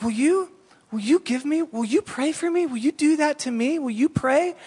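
put-on high eager little girl voice; the little girl eagerly begs them to pray for her. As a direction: plead like an excited kid.

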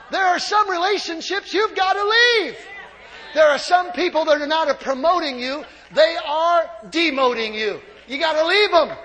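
loud, building preacher's cry; urging the church to cut off bad relationships at full force; preaching shout. Real, not acted. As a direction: hammer each line harder. Preacher's climactic exhortation.

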